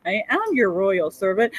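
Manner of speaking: bow and scrape while laughing; laughing mock servant. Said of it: "Bus does with that shit".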